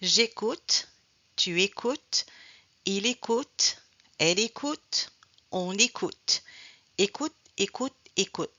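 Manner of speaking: every "écoute" ending on an audible T; teacher's model "écoute", identical each time with crisp final T; final T sounded. Shown as a demonstration. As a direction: release the T at the end of "écoute", drop the E. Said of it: "Here, the consonant is the T".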